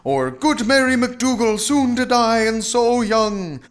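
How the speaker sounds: high, loud, drawn-out lament; keening spectral cries, stretched long; wailing banshees. A narrator's reading. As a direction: wail slowly like a mournful banshee. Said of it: "banshees flitted about the room wailing".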